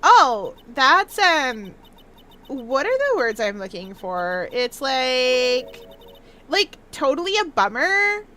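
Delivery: put-on searching-for-words Valley Girl; bubbly Valley Girl accent. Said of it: "do a Valley Girl accent".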